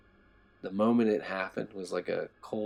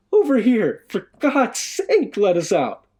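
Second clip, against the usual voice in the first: desperate scream; 14 semitones higher, 11 dB louder, slower than usual. A narrator's reading. Sobbing man begging for release.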